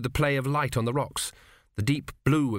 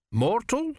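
shocked; 11 semitones higher than usual. A narrator's reading. King shocked at news.

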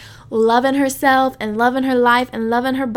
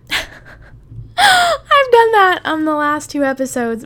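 laughing through the words, higher and louder, slow; 5 semitones higher, 5 dB louder, slower than usual. Real, not acted. To listeners after ranting again, real laughing. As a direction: laugh at yourself mid-sentence.

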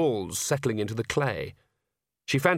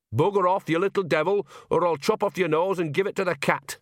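higher-pitched mock country threat; granny's threatening saying; 7 semitones higher than usual. Old witch quotes her granny's saying, mock threatening.

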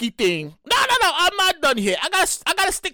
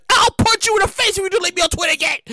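higher, fast mock-angry threat; 4 semitones higher, faster than usual. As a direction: rattle off an over-the-top threat. Acted threat from Twitter users.

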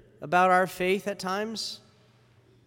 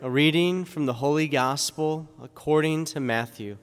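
gospel reading. Acted. Gospel read at Mass.

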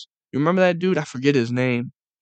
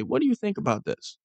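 lightly mocking, higher pitched question; mocking caption; 7 semitones higher, 5 dB quieter than usual. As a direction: sneer at the bait question. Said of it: "the caption will say".

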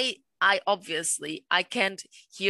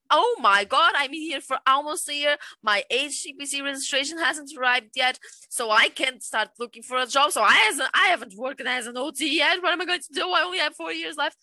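higher, hammed-up panic about the visa plan; mock freaking out; 5 semitones higher than usual. Imagining arriving with a five-year plan, mock anxious and higher. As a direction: spill the worries like a half-joking panic. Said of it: "I would be freaking out".

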